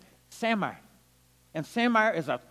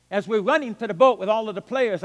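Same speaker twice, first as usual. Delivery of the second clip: ordinary delivery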